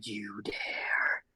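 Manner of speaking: whispering. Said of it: "she says".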